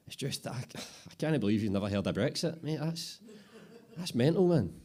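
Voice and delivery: can't believe the boss; amused apprentice. Acted. Apprentice marvels at Bobby's ignorance, high and loud.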